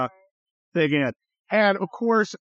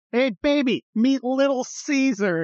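mock come-on; 6 semitones higher than usual. Voicing Flavius's come-on in Colosseum.

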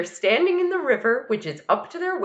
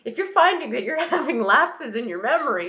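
put-on high-pitched child voice; reasonable little kid; 8 semitones higher than usual. Son advising dad not to fly, earnest little voice. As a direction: reason with him in a raised kid voice. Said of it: "who would be like".

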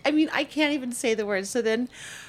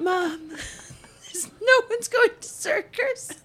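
mocking daughter; 13 semitones higher, slower than usual.

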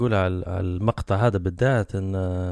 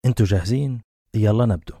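louder, eager call to get going; rally the listeners, pumped up; excited kickoff; 4 dB louder than usual. Real, not acted. Host opening the episode to listeners, excited and louder. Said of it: "أنا متحمس".

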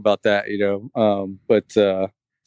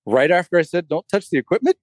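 rising higher in incredulous disbelief; can't believe what he's hearing, climbing in pitch; exasperated disbelief; 7 semitones higher than usual. Retold or imitated. Dad retelling how he questioned his son, incredulous and rising higher.

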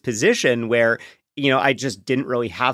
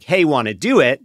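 a casual, offhand come-on, a little louder; blunt pickup line; 3 semitones higher, 6 dB louder than usual. Retold or imitated. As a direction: toss it off like a quick snap initiation. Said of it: "this snap initiation".

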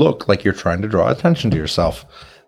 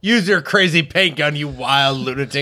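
high, raised rallying order; higher-pitched gleeful command; egging on; 4 semitones higher than usual. Acted. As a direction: urge the crazy inventor on. Player egging on the goblin inventor.

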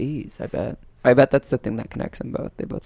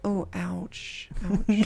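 higher, soft wince; wincing sympathy; 6 semitones higher, 8 dB quieter, much slower than usual. Retold or imitated. Viewer reacting to glass in an eyelid, wincing. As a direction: wince quietly on each ouch.

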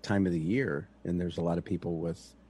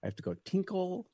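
sassy brush-off; 9 semitones higher than usual. Retold or imitated. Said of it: "I'm like".

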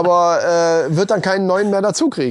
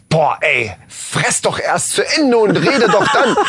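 annoyed inner voice; slower than usual. Retold or imitated. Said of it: "ich denke".

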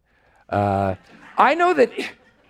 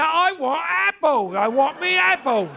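put-on British accent; 12 semitones higher than usual. Hammed-up British accent begging for an apple. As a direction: whine for an apple in a cartoon Brit voice. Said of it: "if you spoke with a British accent".

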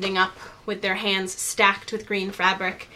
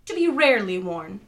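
higher-pitched, careful hostess; lightly voiced Morgana, explanatory; 4 semitones higher than usual. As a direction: lightly play a temple guide explaining etiquette.

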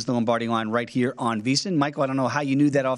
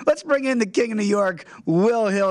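announcer intro; 7 semitones higher, 3 dB louder than usual. Real, not acted. Introducing guest.

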